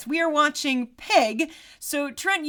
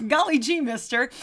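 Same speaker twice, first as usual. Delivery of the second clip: put-on wholesome 1950s kid; 2 semitones higher than usual. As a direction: chirp it like an eager old-timey kid. Joking about the Roaring twenties.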